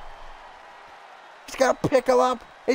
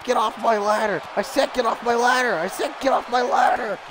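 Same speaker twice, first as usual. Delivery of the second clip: angry shouting. Real, not acted. Yelling at game opponent.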